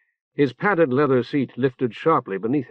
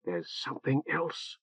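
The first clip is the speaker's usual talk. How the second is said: much softer, secretive whisper; 12 dB quieter than usual. A narrator's reading. Matar to Orc, warning him in a whisper. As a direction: lean in and whisper it. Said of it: "she whispered".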